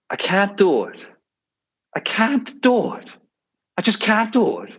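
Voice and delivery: put-on high, whining donkey voice in a Cork accent; whiny donkey. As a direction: wail it like a despairing cartoon donkey. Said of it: "one of the donkeys says".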